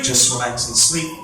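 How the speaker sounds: slow, soothing sleep command; hypnotic induction. Acted. Hypnotist sending volunteers to sleep, slow and soothing. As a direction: lull them down slowly.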